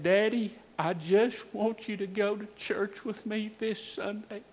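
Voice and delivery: lightly voiced, tender last request; dying child's plea. Injured son in his daddy's arms, softly pleading.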